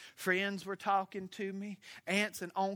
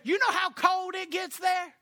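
high, loud imitation of a northerner; mock loud question; 14 semitones higher, 9 dB louder than usual. Pastor voicing northerners asking about cold.

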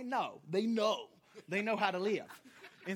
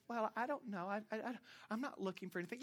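sheepish mumble; 2 semitones lower, 11 dB quieter than usual. Retold or imitated. Relative's reply in retold call.

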